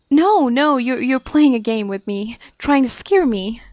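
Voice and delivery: angry. Acted. Girl accusing her friend of scaring her, angry. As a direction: accuse her, repeating words in mild anger. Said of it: "Mary angers".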